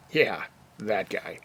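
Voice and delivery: slow, dry, knowing aside; drawn-out deadpan remark; wry aside. Real, not acted. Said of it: "wry aside".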